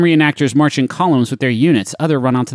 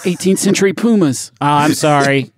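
normal talking voice

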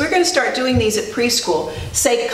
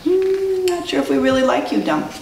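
higher-pitched, hesitant hum into quick words; doubtful animals; 5 semitones higher than usual. Acted. Animals snubbing mean Dump, doubtful. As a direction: voice reluctant doubt. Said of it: "they're all turning their backs to him".

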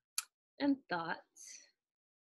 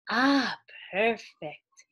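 loud, raised "Ah", then easing; delighted exclamation; 2 semitones higher, 6 dB louder, much slower than usual. A narrator's reading. Old woman finds the heart-shaped umeboshi, exclaiming with delight. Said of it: "exclaimed the little old woman".

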